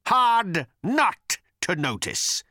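furious bellow. A narrator's reading. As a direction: rant in bitter fury. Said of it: "he bellowed".

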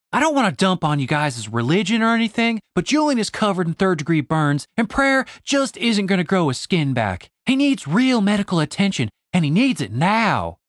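put-on high, insistent young woman; Stacy, exasperated. Stacy insists to the elves that Julian needs medicine, high and insistent. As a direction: press the point, fed up. Stacy voiced through the scene.

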